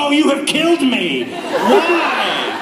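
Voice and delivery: hammed-up shriek, laughing; mock dying wail. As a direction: wail it like the news just finished you off. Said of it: "I'm like".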